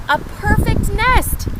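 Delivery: very high, loud and thrilled; excited cry. Acted. Chicken thrilled to find the nest, high loud exclamation. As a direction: exclaim it like a delighted hen. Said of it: "she cried".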